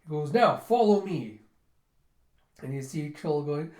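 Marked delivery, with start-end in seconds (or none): 0.3-1.4 loud, slow command, raised pitch; rallying call. Retold or imitated. Leader to his army, a loud rallying call. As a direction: call the troops after you.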